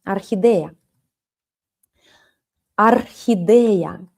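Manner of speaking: Орхидея said slowly and clearly, each syllable; Орхидея spelled out in sound, slow and even; model word for class. Shown as a demonstration. Teacher modelling a new word for students, slow and clear. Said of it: "это орхидея".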